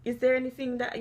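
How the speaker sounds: lightly voiced polite, caring daughter; a touch of sweetness, asking kindly. Shown as a demonstration. Mother shows daughter a kind way to ask. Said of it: "You can say".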